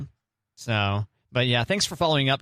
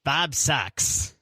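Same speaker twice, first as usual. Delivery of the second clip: spooky voice; 2 semitones higher, much slower than usual. Shown as a demonstration. Spoof spooky commercial tag line.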